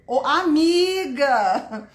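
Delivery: slow, drawn-out shout-out; delighted greeting. Real, not acted. Teacher breaking off to greet a friend, delighted. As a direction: hail a friend, stretching the word. Greets a participant mid-sentence.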